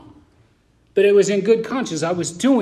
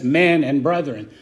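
sarcastic; 3 semitones lower than usual. Retold or imitated. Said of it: "in his little sarcastic way".

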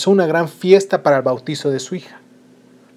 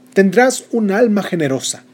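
higher, bright blessing; fairy godmother; 5 semitones higher, 4 dB louder than usual. Acted. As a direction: bestow the gift like a spell. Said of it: "La tercera". (hada madrina concediendo un don)

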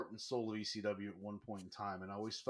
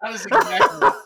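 laughing; 11 semitones higher, 20 dB louder than usual. Real, not acted. Laughing retelling a friend's line.

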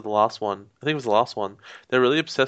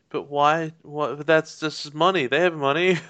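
lightly voiced puzzled child, higher; mock a confused little kid lightly; small child; 3 semitones higher than usual. Small child baffled by foreign money, lightly imitated. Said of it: "a small child would go like".

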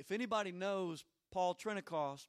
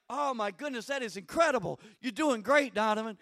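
imitated excitement; 2 semitones higher, 5 dB louder than usual. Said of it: "He just gets all excited".

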